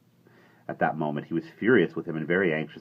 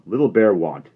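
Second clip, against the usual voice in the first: Little Bear voice; 3 semitones higher, 11 dB louder than usual. A narrator's reading.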